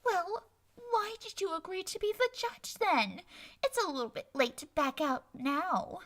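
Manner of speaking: feigned innocence, light and sweet; innocent. Acted. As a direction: ask as if you mean no harm. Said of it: "Trixie inquired innocently".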